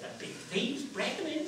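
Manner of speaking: put-on high old countrywoman voice; old woman. Washerwoman imagines thieves breaking in, high old-woman voice. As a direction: fret lightly as the old washerwoman. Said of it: "how old and worn out she is".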